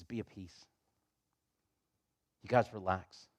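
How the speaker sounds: soft, low words of peace; gentle reassurance. Retold or imitated. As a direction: quietly settle frightened guests. Servant soothes the anxious brothers.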